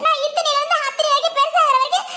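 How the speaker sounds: high-pitched indignant arguing; indignant protest. Acted. Daughter insisting she always saw him, indignant protest. Daughter argues back at mother.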